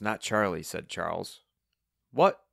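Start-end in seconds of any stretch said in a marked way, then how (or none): 2.1-2.4 loud, high, rising "What?"; hard-of-hearing shout. A narrator's reading. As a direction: call out as if you can't hear. Hard-of-hearing Wayne asks to repeat.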